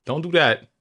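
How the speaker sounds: firm dad. Retold or imitated. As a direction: put your foot down as dad. Dad scolding daughter's word choice.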